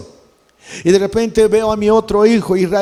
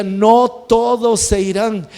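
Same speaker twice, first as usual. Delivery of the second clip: slow, weighty divine pronouncement; solemn retold voice of God, lightly booming; el Señor; 2 semitones higher, 3 dB louder, slower than usual. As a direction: proclaim it slowly, a little louder. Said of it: "la voz del Señor comenzó a retumbar".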